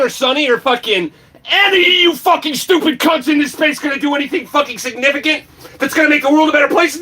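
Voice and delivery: fast high shouting, swearing hard; furious rant. Real, not acted. Lashing out at the viewers in the space, high furious shout. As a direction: tear into them at full volume. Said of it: "This is my rant".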